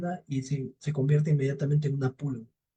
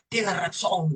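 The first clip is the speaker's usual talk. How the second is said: higher-pitched conceding devil; lightly voiced devil relenting; grudging devil; 5 semitones higher, much slower than usual. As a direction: give in reluctantly as the devil.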